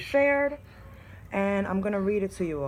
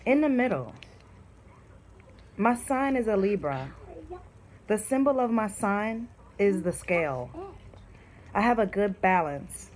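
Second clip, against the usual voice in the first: reading her own poem. Shown as a demonstration. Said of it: "I said".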